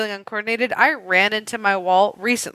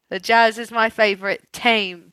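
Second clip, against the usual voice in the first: light Aussie accent, team as "tame"; half-hearted Australian, "team" said like "tame". Shown as a demonstration. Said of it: "so I could do tame".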